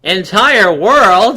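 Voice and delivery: slow, drawn-out questioning echo; mock disbelief. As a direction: ask it back slowly in disbelief.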